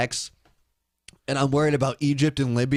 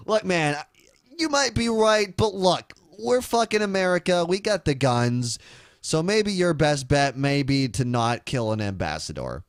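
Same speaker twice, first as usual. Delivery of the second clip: high, brash mock swagger; cocky America; 5 semitones higher than usual. America lecturing a country, high and brash. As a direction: puff up like a bully superpower.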